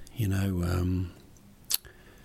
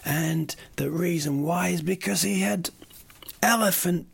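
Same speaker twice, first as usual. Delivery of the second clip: lightly hammed-up courtroom reveal, voice higher; movie lawyer reveal; 4 semitones higher than usual. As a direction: play a TV lawyer unveiling the twist. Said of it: "in those movies when you".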